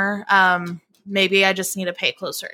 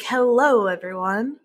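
imitating intro voice. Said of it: "It's gonna be iconic".

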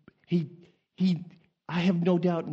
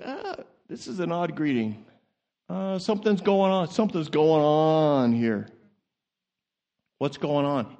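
mock wary bewilderment; 3 semitones lower than usual. Mary taken aback by loud greeting.

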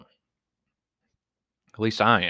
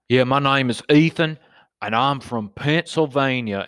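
mocking the wannabe redneck; 4 semitones higher than usual. Fake redneck introducing himself on Snapchat, dopey and proud. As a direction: play him as a proud clueless kid. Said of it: "I'm gonna say it was something stupid like Ethan".

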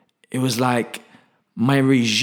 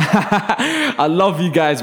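laughing; 3 semitones higher, much slower than usual. Real, not acted. Laughing at a fan's message.

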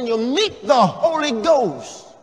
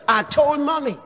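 "told" punched, falling; the word told carries the meaning; stress on told; 8 semitones higher than usual. Shown as a demonstration. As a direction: lean hard on "told". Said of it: "That's a great difference".

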